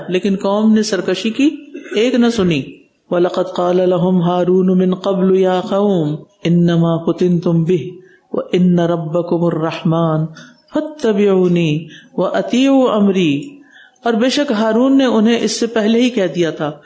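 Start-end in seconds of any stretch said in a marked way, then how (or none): 3.1-13.4 Quran recitation. Acted. Preacher recites the verse to the congregation, melodic chant. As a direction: chant the Arabic verse reverently.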